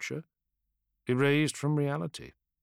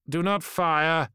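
slow, louder order to hold fire; firm command; 6 semitones higher, 5 dB louder, slower than usual. Acted. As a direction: stop them with one firm command.

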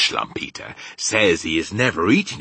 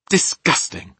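high, loud revulsion; disgusted outburst; 11 semitones higher, 6 dB louder than usual. A narrator's reading. Sophie reacts to the man-eating giants, disgusted.

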